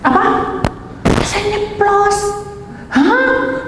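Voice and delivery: high, slow incredulous echo; high startled disbelief; shocked disbelief. Retold or imitated. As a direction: hit the words like you can't believe them. Shocked reaction to friend's words.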